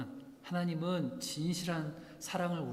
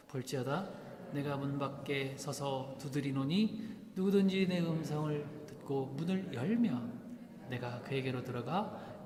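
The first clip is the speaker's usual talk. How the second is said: slow, measured recitation; solemn scripture reading; slower than usual. Acted. Pastor leading congregation in reading, slow recitation. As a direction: read each word slowly, together.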